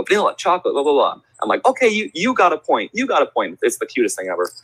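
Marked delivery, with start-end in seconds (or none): 0.0-1.2 high-pitched hint of a small child; lightly voiced little girls. Little girls answer the game host, lightly mimicked child voice. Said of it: "They go". 1.7-3.6 high-pitched encouragement, re-enacted; cheery game host. Host rewards two little girls in game, cheery high voice.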